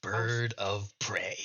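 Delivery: slow, reverent whisper; hushed, drawn-out whisper of his own grand title. Acted. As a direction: breathe it out like a sacred title. Vulture proudly names himself.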